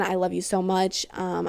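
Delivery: ordinary talk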